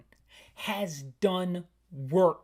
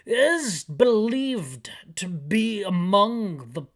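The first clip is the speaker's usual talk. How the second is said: higher, slow chief voice; 4 semitones higher, 3 dB louder, slower than usual. Acted. Chief briefing Barry on the cruiser, higher and slow. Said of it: "That's a terrible voice for the chief".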